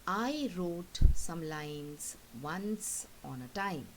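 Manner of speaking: slow, measured poem reading; teacher reading a poem aloud, slowly; poem recitation. Acted.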